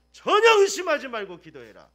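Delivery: booming preacher command; loud command. Real, not acted. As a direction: thunder it out. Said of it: "loud repeat". (강하게 외치는 명령)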